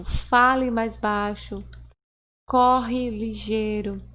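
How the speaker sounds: slow, measured example commands; deliberate imperative demonstration; giving orders. Shown as a demonstration. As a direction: give demo orders, drawing out the words. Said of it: "passa uma ideia de ordem".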